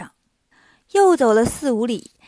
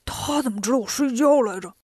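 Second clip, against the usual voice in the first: startled thought. A narrator's reading. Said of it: "八戒心里一惊".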